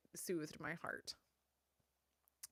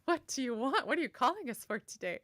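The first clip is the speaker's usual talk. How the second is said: higher, louder mock formal answering; playing along in character; 6 semitones higher, 7 dB louder than usual. Hospital staff answering the pretend mayor, in character. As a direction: put on an eager official phone voice. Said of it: "instantly go into character".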